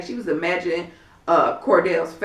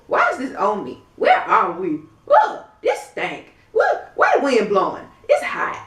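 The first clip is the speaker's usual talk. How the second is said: whiny complaining impression. Vlogger imitating Phaedra complaining about the blindfold, mock whiny. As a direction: whine about everything like a spoiled diva. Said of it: "But she's like".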